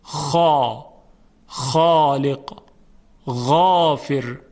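خا خالق غافر slow, with full thick alifs; heavy letters. Shown as a demonstration. Teacher showing the heavy خا and غین slowly. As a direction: draw each word out heavy. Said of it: "دقت کنید".

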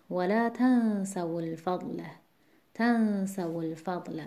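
تنسوا الفضل with stress on the تَ. Shown as a demonstration. Teacher demonstrates the stress of تنسوا in connected reading.

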